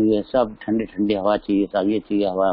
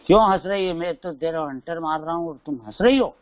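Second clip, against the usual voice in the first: angry king; 6 semitones higher, faster than usual. Retold or imitated. King questions the laughing maid.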